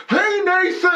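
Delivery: high-pitched mock heckle; excited shout-out from the crowd, imitated; heckling yell. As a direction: call out like a heckler, laughing through it. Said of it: "not to yell out".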